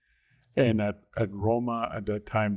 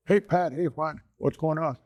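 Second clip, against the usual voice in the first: friendly call-out; 6 semitones higher than usual. Retold or imitated. Rancher calls out at checkpoint.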